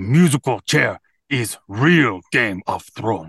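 caveman accent, small words dropped, clunky grammar. Given a phrase and an accent in a game, saying the phrase in a caveman accent. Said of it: "Your accent is caveman".

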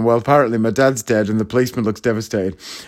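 normal talking voice

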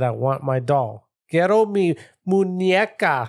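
put-on small, slow childlike little girl voice. Retelling what the voices he was hearing said, in a little girl voice. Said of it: "Little girl voice".

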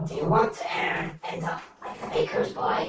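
put-on woman's voice. Describing what the players hear, voicing a heard speaker in a female voice. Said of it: "you can hear the female voice go".

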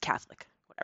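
soft, unvoiced whisper. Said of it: "I whispered".

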